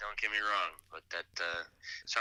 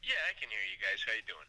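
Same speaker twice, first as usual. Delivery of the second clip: phone speaker. Real, not acted. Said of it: "we have you on speakerphone".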